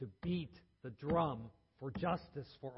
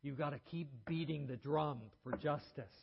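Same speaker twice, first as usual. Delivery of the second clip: hoarse. Retold or imitated. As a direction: rasp it out hoarsely. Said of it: "and said hoarsely".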